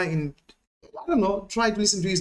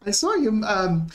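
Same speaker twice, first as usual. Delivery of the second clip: laughing; 6 semitones higher, slower than usual. Real, not acted. Laughing while talking.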